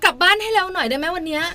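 demanding wife. Acted. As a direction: snappish mock order to a husband.

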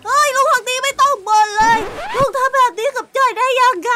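put-on a boy protesting to his grumpy uncle; cheeky young boy. Plays boy Joy, higher voice. (เสียงเด็กผู้ชายโวยวาย)

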